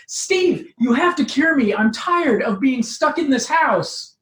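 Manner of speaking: a hint of a desperate young woman; Laura pleading. Laura begs Steve.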